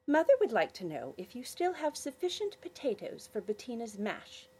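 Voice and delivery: put-on prim little girl asking.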